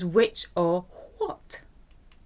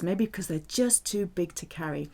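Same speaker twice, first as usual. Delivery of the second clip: a conspiratorial whisper; hushed jokey aside; 7 dB quieter than usual. Real, not acted.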